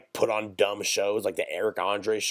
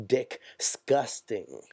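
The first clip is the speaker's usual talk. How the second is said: mock French accent; much slower than usual. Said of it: "like the French say".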